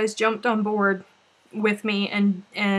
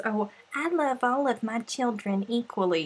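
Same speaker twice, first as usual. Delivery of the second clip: mock quote; 3 dB quieter than usual. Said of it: "everybody always says".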